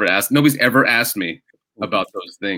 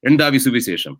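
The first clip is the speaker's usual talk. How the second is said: said properly with a Malayalam accent; demonstrating the proper Malayalam accent; 3 semitones higher, 3 dB louder, faster than usual. Shown as a demonstration. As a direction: give Endavi Suvisesham its native Malayalam sound. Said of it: "you have to put on the accent".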